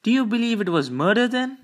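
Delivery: high, loud, rapid question; astonished cry. Acted. Nurse pressing Lord Peter about a death, excited cry. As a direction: blurt it out in eager alarm. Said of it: "she cried".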